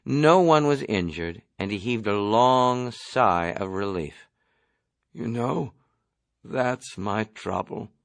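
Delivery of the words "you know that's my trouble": groaning. Acted. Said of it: "he groaned".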